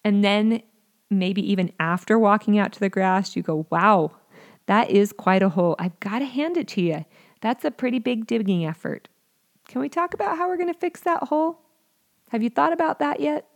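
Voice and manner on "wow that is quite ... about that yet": intrigued. Shown as a demonstration. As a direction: praise the digging, then ask kindly. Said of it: "enter in with a bit of intrigue".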